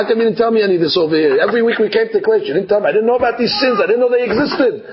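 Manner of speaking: rapid-fire acted protest; indignant complaint. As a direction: rattle off a hurt complaint at speed. Acted congregant complaining to rabbi.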